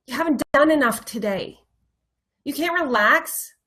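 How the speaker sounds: loud, insistent inner critic, lightly acted; negative self-talk. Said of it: "speaking to yourself in such a negative way".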